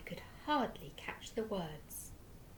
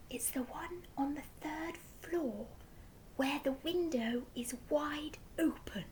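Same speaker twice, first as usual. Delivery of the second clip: soft unvoiced whisper; 6 semitones higher, 4 dB quieter than usual. A narrator's reading. Giraffe whispers the room to the Duke. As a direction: breathe the answer quietly. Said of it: "the giraffe whispered".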